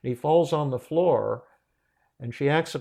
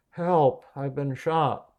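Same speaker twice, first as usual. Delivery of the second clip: high, loud cry of "Help", then easing; mock wailing for help; 3 semitones higher, 4 dB louder, slower than usual. Wounded stranger calls from outside her apartment, mock wail. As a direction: imitate a wounded man calling out. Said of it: "this wailing outside of her apartment".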